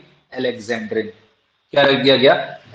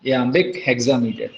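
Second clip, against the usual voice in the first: slow dictation; 3 semitones lower, much slower than usual. Shown as a demonstration. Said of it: "बहुत अच्छे से साफ साफ लिखेंगे".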